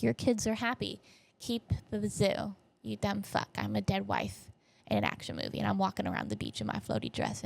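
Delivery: hushed voice from beyond; softly counsel, in mock solemnity; dead wife voice. Dead wife talking to widower, hushed mock solemnity. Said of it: "his dead wife is talking to him".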